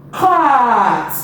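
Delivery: CAT stretched out slowly to the final t; slow phonics demonstration of CAT; slow blend. Shown as a demonstration. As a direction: draw out the vowel in CAT. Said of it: "Now let's blend it slowly".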